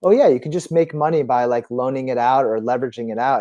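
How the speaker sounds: lightly mimicked breezy sales patter; imitated nonchalance. Host imitating crypto commentators on making money, mildly nonchalant. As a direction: toss it off as if it's easy money. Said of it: "it's so nonchalant".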